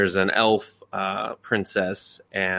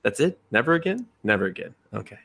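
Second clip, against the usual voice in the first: baffled disbelief; faster than usual. Retold or imitated. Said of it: "you're just like".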